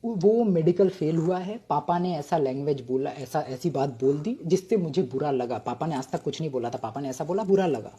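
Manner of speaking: mock-tragic hushed storytelling; dramatic. Shown as a demonstration. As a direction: let the sting of the memory show quietly. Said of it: "dramatically ही बोलूंगा".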